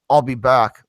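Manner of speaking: put-on a light California accent on "I'll be back". Mocking the changed line to his friends, light California accent. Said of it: "a fucking California accent".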